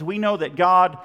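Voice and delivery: loud, emphatic GOD at the end; GOD punched with a falling tone; stress on GOD. Shown as a demonstration. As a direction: land hard on the word GOD. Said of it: "The emphasis is on God".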